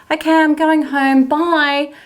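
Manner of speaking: high, quick dismissive goodbye; brisk brush-off. Retold or imitated. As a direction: wrap it up and walk away. She brushes him off.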